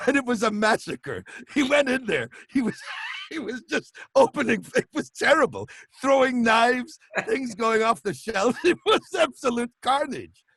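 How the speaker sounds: high-pitched, on the verge of bursting out laughing; Terry Gilliam. Retold or imitated. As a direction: imitate someone barely holding back giggles while telling horrors. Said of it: "sounded like he was about to burst out laughing".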